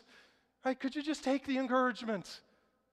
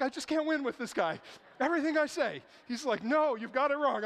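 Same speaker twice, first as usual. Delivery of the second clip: mock exasperation; 4 semitones higher, 6 dB louder than usual. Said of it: "And I'm like".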